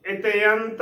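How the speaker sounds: ਇਤਿਅੰਤ as "ite-ant"; correct pronunciation demo. Shown as a demonstration. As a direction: say ਇਤਿਅੰਤ with "te-ant" as separate vowels. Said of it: "ਉਚਾਰਨ ਕਰਨਾ ਹੈ".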